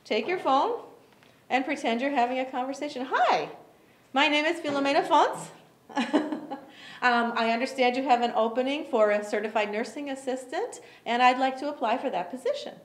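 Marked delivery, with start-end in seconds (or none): 3.1-12.8 bright, lively caller voice; friendly enthusiastic. Shown as a demonstration. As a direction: smile into the phone. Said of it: "Does that sound better than".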